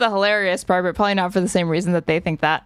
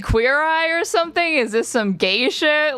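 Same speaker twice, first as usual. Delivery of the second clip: mocking; 7 semitones higher than usual. Mocking the guest's take.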